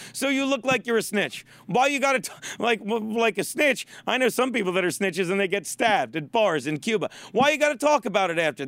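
lightly mocked Spanish accent; Big Papi. Host quoting a ballplayer's complaint, mock Spanish accent. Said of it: "he's very Spanish".

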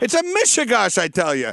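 kvetch "mishigash, I tell you" in Yiddish lilt; Yiddish accent. Retold or imitated. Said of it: "impression of Jewish parents".

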